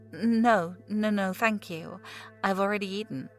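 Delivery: halting, tripping over the words; stammering. Acted. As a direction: stumble out a nervous refusal. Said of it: "stammering out".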